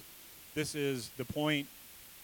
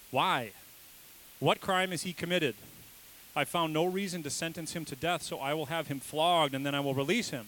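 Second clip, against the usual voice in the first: louder, insistent plea to the mob; Pilate pleading; 3 semitones higher, 4 dB louder than usual. Acted. Pilate pleads with the crowd to accept flogging, louder. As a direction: push the offer at a shouting crowd.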